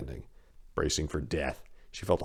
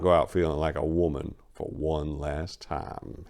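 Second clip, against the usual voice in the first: leering crime boss. Acted. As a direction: slide into a sleazy offer. Duke Willie leering.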